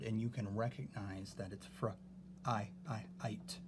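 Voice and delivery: "fr, I, I, ite" with a long eye sound; sounding out fright. Shown as a demonstration. Teacher sounding out the word for the class. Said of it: "actually an I sound".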